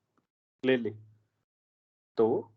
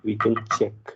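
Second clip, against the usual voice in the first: slow dictation; 4 semitones lower, much slower than usual. Shown as a demonstration. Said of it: "बात के लिए लिख रहा हूँ आपके".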